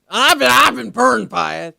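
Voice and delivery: high, loud put-on voice; mock president voice. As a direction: lightly voice the president. Host voicing the president.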